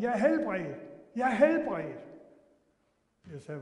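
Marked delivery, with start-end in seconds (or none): 0.0-2.1 louder, jubilant cry; loud happy yell of being healed; retold joyful shout. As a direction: shout it out, overjoyed. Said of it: "og så skreg han".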